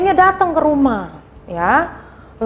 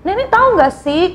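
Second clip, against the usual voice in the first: put-on sulky child; 4 semitones higher than usual. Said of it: "kata si Rita".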